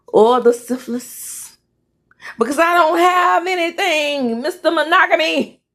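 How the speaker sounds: agitated, emphatic accusation; scornful wronged wife. Acted. Wife mocking Mister Monogamy, indignant. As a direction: cut off the answer, then build to scorn. Acts wife confronting husband.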